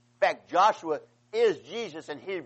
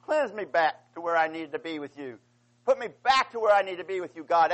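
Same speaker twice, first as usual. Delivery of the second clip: higher and louder, an impassioned plea; fervent raised prayer of repentance; crying out to God; 4 semitones higher, 4 dB louder than usual. Retold or imitated. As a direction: beg God for a clean heart, pitched high. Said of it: "And then he says".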